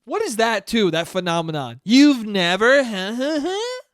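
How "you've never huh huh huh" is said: stammering huh shooting much higher; mock stunned. Mocking people stunned he never chewed gum, much higher. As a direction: lampoon the speechless gasp.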